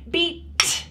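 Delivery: "beat" with a held vowel and a separate tapped "t"; ending sound set apart. Shown as a demonstration. Therapist demonstrating with a hammer, final "t" in "beat" tapped separately. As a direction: say "beat", then release the "t" on its own. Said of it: "working on those ending sounds".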